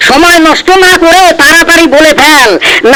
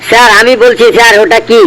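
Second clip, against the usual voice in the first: a lightly lowered, hesitant schoolboy voice; timid pupil; 3 semitones lower than usual. Acted. A nervous pupil answers the strict teacher, hesitant. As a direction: stumble nervously through the answer like a scared pupil.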